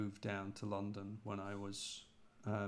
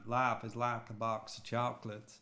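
a Brit's light go at a simple Southern film hero; Forrest Gump. Acted. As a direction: quote it in a mild American Southern accent. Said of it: "Forrest Gump was one of those".

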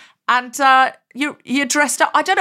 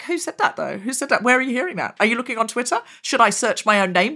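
eager questions; 3 semitones higher than usual. Retold or imitated. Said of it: "but I was like".

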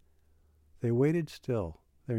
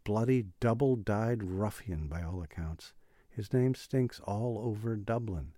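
cried; 2 semitones higher than usual. Acted. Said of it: "he cried above the clatter of the wheels".

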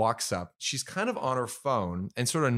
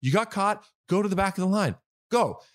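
mock-gracious scolding; 8 semitones higher than usual. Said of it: "that's why I said".

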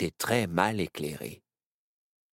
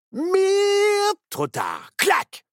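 sudden alarm; 8 dB louder, much slower than usual. A narrator's reading. Nao sees the monster bite.

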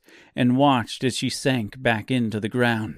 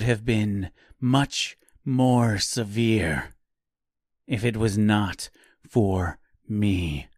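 cold warning. Acted. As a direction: warn him from a position of power. Forest woman warns coldly.

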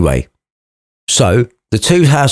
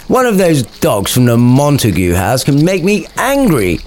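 lightly hammed-up tough servant, pitched higher; Samson; 4 semitones higher than usual. Samson grumbling to Gregory about Montague dogs, tough-servant voice. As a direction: voice a servant trying to sound hard. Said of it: "said Samson".

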